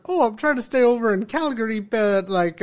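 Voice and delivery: lightly mimicked Canadian-Hispanic blend; attempted Canadian-Hispanic accent. Speaker imitating a person from work, attempted Canadian-Hispanic accent. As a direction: switch from Canadian toward Hispanic accent, tentatively. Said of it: "um, he was like".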